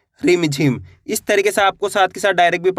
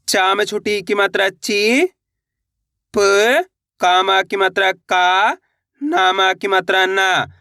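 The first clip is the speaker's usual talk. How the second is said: slow syllable spelling; slower than usual. Shown as a demonstration. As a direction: slowly spell out each syllable. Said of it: "कैसे पढ़ेंगे?". (धीरे-धीरे अक्षर जोड़कर पढ़ना)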